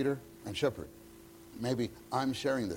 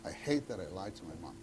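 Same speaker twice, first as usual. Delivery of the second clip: put-on remorseful child; 2 semitones lower, 4 dB quieter than usual. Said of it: "did you ever realize".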